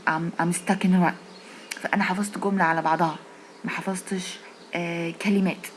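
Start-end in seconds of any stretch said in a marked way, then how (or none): 0.1-1.1 slow, deliberate phrase; slow careful English. Shown as a demonstration. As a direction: say each word slowly and clearly. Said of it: "هقول". (نطق بطيء وواضح)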